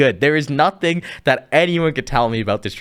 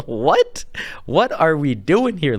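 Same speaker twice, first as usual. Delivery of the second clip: incredulous; 2 semitones higher, slower than usual. Real, not acted. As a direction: react in disbelief to a baffling trade. Incredulous reaction to the trade.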